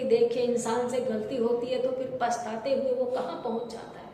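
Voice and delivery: mild, low-voiced sorrow; acted regret. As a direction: voice an onlooker's understated regret. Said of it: "और किसी में खेद की".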